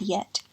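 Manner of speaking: "yet" with the t released; sounded final T. Shown as a demonstration. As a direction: finish "yet" on a clear t. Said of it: "Even at the end of words".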